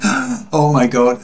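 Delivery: gasp, then a drawn-out horrified exclamation; mock shock. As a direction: mimic a panicked public reaction. Acting out the public's frightened reaction.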